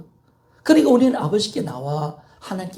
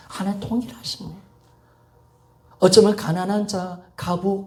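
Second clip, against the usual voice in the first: ordinary talk, nothing marked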